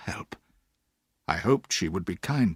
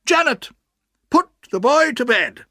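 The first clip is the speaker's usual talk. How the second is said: put-on high, brisk old-lady voice; stern old aunt; 14 semitones higher, 8 dB louder than usual. A narrator's reading. Aunt orders the boy put to bed, high and brisk. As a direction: play the bossy aunt deciding.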